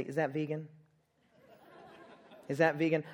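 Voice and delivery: mock picky potluck guest; fussy eater mockery. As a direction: poke fun at the fussy diner. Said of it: "go down the line at potluck and say".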